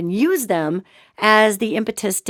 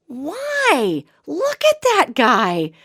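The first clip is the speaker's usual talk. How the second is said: put-on whispered child's plea; 5 semitones higher, much slower than usual. Kid's reply voiced in story.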